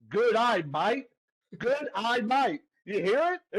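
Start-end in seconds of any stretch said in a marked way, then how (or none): 0.1-1.1 slow, separated Australian-style "Good eye, mate"; Australian accent. Shown as a demonstration. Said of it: "with an Australian accent. Let me, let me show you". 1.6-2.6 Australian-sounding "Good eye, mate", falling on "mate"; Australian accent. Shown as a demonstration. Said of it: "with an Australian accent".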